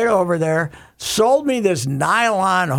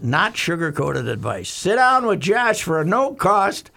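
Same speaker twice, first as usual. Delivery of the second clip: measured sponsor read, punching random words. Real, not acted. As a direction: stretch out the key words like a radio pitchman. Reads a sponsor ad.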